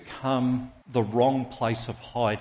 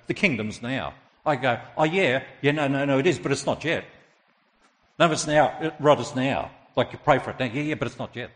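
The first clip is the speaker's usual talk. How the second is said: raised, insistent back-and-forth; acted argument; 3 semitones higher, 4 dB louder than usual. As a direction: imitate two friends contradicting each other insistently.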